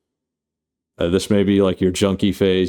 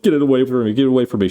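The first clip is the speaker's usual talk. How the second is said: higher, urgent plea; lightly acted frantic recoil, words tumbling out; mock panic; 5 semitones higher, 4 dB louder, much faster than usual. Kay wants the alien egg gone, mock panic.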